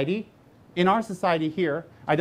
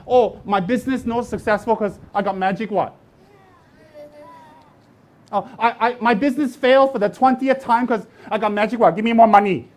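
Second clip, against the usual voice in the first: whiny beggar's plea, louder at the end; mock whining plea; 3 semitones higher, 4 dB louder than usual. Monk mocking a follower who blames magic for failure, whiny. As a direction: ham up a complaining excuse-maker asking for money. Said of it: "if you run around saying".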